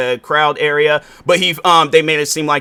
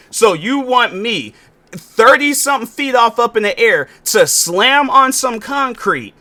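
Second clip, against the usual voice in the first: incredulous; 6 semitones higher than usual. Real, not acted. Incredulous rant at wrestling critics.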